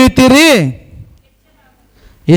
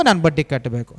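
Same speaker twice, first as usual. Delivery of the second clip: much lower and softer, ನಾನು leaned on as it falls; soft echo; 6 semitones lower, 7 dB quieter than usual. Shown as a demonstration. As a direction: drop the repeat of ನಾನು ಬಡ್ಡಿ ಕಟ್ಟಬೇಕು to a low aside. (ಮೃದುವಾದ, ತಗ್ಗಿದ ಧ್ವನಿಯ ಪ್ರತಿಧ್ವನಿ)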